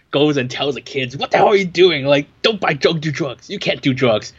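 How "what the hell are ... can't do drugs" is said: put-on higher-pitched, preachy scolding of a kid; mock moral outrage. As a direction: parody a self-righteous hero telling off a young buyer. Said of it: "had this moral outrage".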